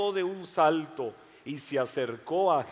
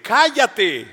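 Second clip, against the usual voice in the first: higher, loud angry snap; shouted hush; 5 semitones higher, 9 dB louder than usual. Acted. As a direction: silence him sharply. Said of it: "muchos le gritaban".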